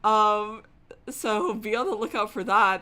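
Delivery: loud, slow announcer hype. Real, not acted. Streamer hypes tomorrow's stream to chat, loud. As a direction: sell tomorrow's game loudly. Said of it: "a really abrupt tone switch".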